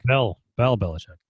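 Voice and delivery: "Bell" said with an E in place of Bill; demonstrated pronunciation. Shown as a demonstration. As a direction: show how you say "Bell Belichick". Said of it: "how do you say Belichick?".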